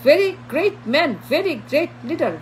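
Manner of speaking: slow, drawn-out pretend flattery; slow mocking compliments; mock fawning praise. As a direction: act out world leaders gushing, slowly. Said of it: "handshake করে তাকে বলবে যে".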